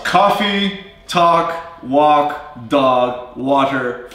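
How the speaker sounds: coffee, talk, walk, dog, water one by one; pronounced vowels. Shown as a demonstration. Co-teacher listing own vowels, pronounced one at a time. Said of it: "Very pronounced for me at least".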